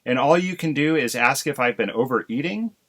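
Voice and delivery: burst out. Acted. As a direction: pour out the grievance at the husband. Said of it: "Missus Crow burst out".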